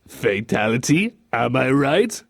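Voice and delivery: coaxing question with rising ends; mock-innocent nudge; fake innocence. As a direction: suggest it through a sly smile. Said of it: "suspicious smile someone puts on to kinda make them look innocent".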